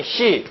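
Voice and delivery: 시 as Japanese shi; a clear, isolated Japanese 시; Japanese pronunciation. Shown as a demonstration. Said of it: "이거 일본말로 발음이".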